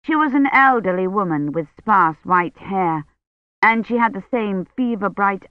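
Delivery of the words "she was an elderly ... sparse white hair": plain reading voice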